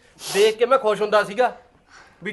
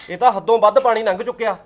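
tearful; 3 dB louder than usual. Acted. Husband hurt by wife's cruelty.

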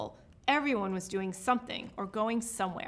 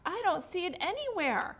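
high-pitched worried dismay; anxious, voice pitched up; alarmed; 7 semitones higher than usual. A narrator's reading. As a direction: report it in rising panic. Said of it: "Rodney gasped".

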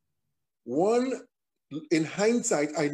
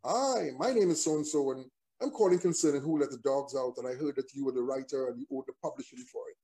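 mock American phone caller; imitated American accent. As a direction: put on a lightly American caller's voice. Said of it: "with a very strong American accent".

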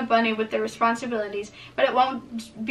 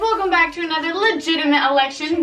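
youtuber intro voice; 4 semitones higher than usual. Acted. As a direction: hype up the crowd like a YouTuber. Reads old election speech.

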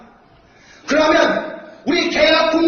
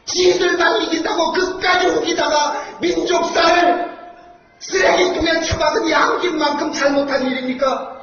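roaring rallying speech. Real, not acted. Rally speaker shouting at crowd.

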